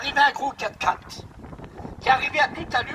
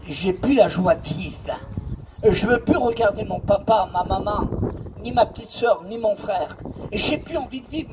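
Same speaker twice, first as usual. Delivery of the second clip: mild tearful; 4 semitones lower than usual. Retold or imitated. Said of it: "avec des grosses larmes".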